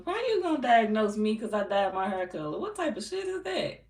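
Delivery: high-pitched, incredulous challenge; incredulous clapback. Real, not acted. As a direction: pitch climbing high in disbelief. Clapping back at a troll's comment.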